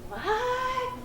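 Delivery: imitating a baffled what, pitched high; a puzzled customer who doesn't get it; mock confusion. Confused customer asking the clerk, mock high what.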